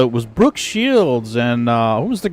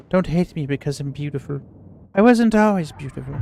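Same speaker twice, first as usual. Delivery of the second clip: quoting the commercial; faster than usual. Retold or imitated. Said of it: "She had that French accent".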